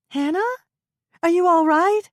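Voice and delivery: high worried woman's voice calling; Lisa calling down. Acted. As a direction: call down from above, concerned. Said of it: "Lisa's voice floated down to her from above".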